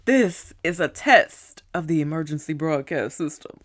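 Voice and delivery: measured, official test-message delivery; mock broadcast announcer. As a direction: recite it like an emergency announcement.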